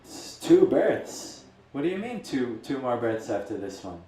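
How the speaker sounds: disbelieving, indignant Brahmin; angry outburst. Retold or imitated. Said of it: "the Brahmin is angry".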